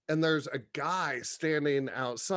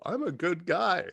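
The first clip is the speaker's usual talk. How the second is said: higher-pitched mock self-quote; lightly acted higher voice; mock-sincere claim; 5 semitones higher than usual. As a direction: plead your decency, tongue in cheek. Quoting his old self to girls.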